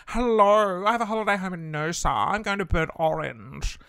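hammed-up snobby yuppie voice; mock the upmarket crowd, nose in the air; posh yuppie mock. Mocking rich yuppies at a fancy restaurant, snooty put-on voice.

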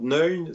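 "Neun" said the Swiss German way; Swiss German pronunciation. Shown as a demonstration. Correcting a co-host on the font's German name, Swiss German pronunciation. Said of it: "faut prononcer à la, à la Suisse allemande".

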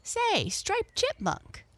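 high, slow drawn-out call. A narrator's reading. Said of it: "cried the Merry Little Breezes".

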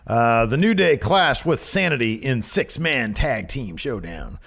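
building hype with a big climb on they will clash; news recap read. Acted. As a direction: read it like a TV match preview.

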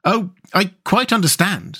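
high-lilted, understanding reassurance; kindly, mildly voiced sympathy; soothing. A narrator's reading. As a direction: soothe a frightened friend. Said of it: "said the rat soothingly".

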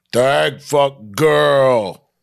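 loud, very slow caveman voice; caveman Steve. Acted. Caveman answering snobby Norman, loud and dim. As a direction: grunt it out long like an Australopithecus. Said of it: "much like an Australopithecus".

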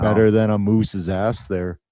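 hammed-up Canadian accent; put-on Canadian accent. Co-host topping his donut joke, bad Canadian accent. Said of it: "That's not even a Canadian accent".

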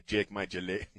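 mock Mexican accent on Irish words. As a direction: try the Irish phrase like a Mexican. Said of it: "with a Mexican accent".

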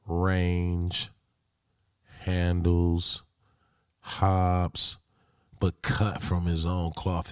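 slow, measured eulogy with long pauses; solemn tribute. Acted. Player honouring the late Kobe Bryant, solemn and measured. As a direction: deliver it like spoken tribute, phrase by phrase.

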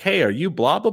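sweet, high and friendly; sugary mock politeness, pitch climbing; all nice. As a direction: fake nice greeting, voice rising high. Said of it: "and I say it all nice".

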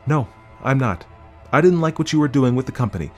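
high, urgent wife; earnest, high-pitched appeal; pleading justification. A narrator's reading. Wife pleads her case.

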